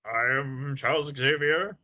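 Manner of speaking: slow, hammed-up narrator voice; slow grand voiceover read; Stan Lee voiceover. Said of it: "the Stan Lee voiceover".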